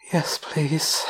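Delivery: whispered, wanting reply; hushed and full of longing; lustful whisper. A narrator's reading. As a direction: whisper it, thick with desire. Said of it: "she whispers back in a voice thick with lust".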